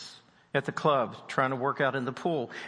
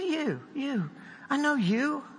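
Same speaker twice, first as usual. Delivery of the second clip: pointed, high accusing "You"; accusing recognition; 10 semitones higher, slower than usual. Retold or imitated. Preacher retelling the gym man recognizing him, accusing. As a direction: jab the word at him like a pointed finger. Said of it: "He pointed his finger at me".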